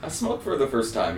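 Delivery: very high, proud stoner confession; giddy high voice. Retold or imitated. His stoned self retold.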